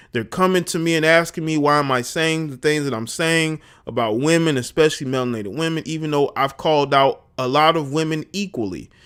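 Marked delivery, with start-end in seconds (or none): none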